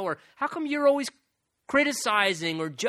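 hammed-up reproach; mock accusing. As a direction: imitate someone finding fault. Acts out ungodly accusing a Christian.

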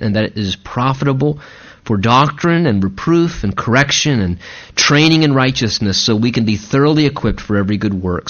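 measured, understated congregational prayer; subdued pastoral prayer, falling phrase endings; leading prayer. Real, not acted. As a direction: pray earnestly on the congregation's behalf.

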